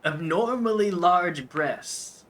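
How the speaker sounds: "abnormally" drawn out slow and loud; stress on abnormally. Real, not acted. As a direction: lean hard into "abnormally", slow. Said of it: "when I say giant breasts, I mean".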